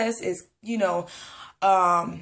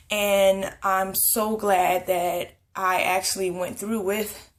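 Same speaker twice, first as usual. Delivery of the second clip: slow, winded, breathing between words; slower than usual. Real, not acted. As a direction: speak short of breath. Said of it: "I'm out of breath too".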